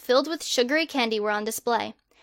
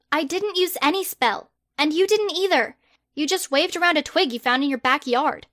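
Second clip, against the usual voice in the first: higher, exasperated protest; indignant girl; 4 semitones higher than usual. Acted. Hermione protesting her arrest to Harry, higher and indignant. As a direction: push back in disbelief.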